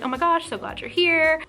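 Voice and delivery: super nice, excited. Retold or imitated. Singer welcoming fans with a hug, super nice and excited. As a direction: imitate a gushing host's welcome. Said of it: "like, super nice, excited".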